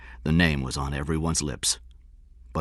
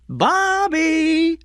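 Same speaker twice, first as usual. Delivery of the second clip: loud, very high long-drawn call; 6 dB louder than usual. A narrator's reading. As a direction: summon a child from outside. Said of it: "Diane called".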